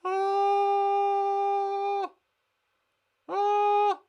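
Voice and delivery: high squeaky oh for the model. Shown as a demonstration. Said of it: "I can't remember what my noises were".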